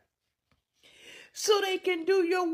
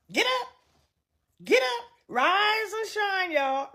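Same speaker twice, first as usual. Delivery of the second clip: mock wake-up call; 3 semitones higher, 4 dB louder than usual.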